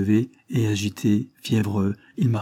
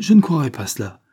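higher, louder protest; exclaimed disbelief; 4 semitones higher, 6 dB louder than usual. A narrator's reading. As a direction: refuse to believe it. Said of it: "s'écria-t-elle". (protestation incrédule)

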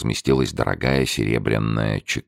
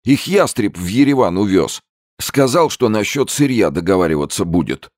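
high, louder panicked babbling; frightened businessman; 10 semitones higher, 4 dB louder than usual. A narrator's reading. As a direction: gabble it out in fear. Zeldin's frightened voice.

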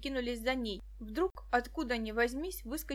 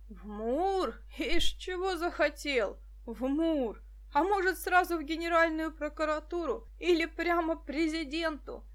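mocking; 5 semitones higher, 3 dB louder than usual. A narrator's reading. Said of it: "издевался милиционер".

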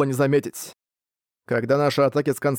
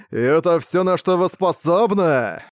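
mustache twirling villain; 3 semitones higher, slower than usual. Acted. Demon lord taunts the heroes.

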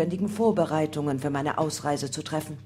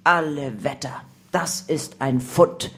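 lower, drawn-out amazement; astonished exclamation; 4 semitones lower than usual. A narrator's reading. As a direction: marvel slowly at a discovery. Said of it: "rief der Captain".

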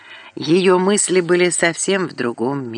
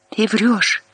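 furious; 6 semitones higher than usual. A narrator's reading. Furious caller on the phone.

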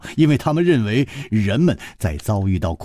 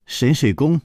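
giggle, then brag playfully in a high voice; high, chirpy joking dismissal; amused snicker; 7 semitones higher than usual. A narrator's reading. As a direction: snort of laughter, then high teasing bravado. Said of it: "扑哧一笑说".

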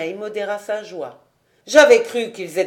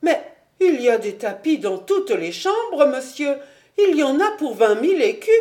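higher, louder, fast pleading with a laugh; flustered protest; 5 semitones higher, 4 dB louder than usual. A narrator's reading. The financier pleads to save his house, higher, louder and fast. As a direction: protest in a rush of panic. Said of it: "le financier se montra rétif".

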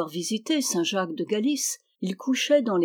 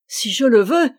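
loud, higher, rapturous exclamation; with rapture; 4 semitones higher, 8 dB louder than usual. A narrator's reading. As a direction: burst out with joy. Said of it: "s'écria Alanic avec transport".

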